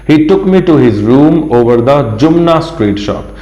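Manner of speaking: slow, deliberate English reading; slow teacher read-aloud. Shown as a demonstration. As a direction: read it out slowly for the class. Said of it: "teacher reads the English line slowly".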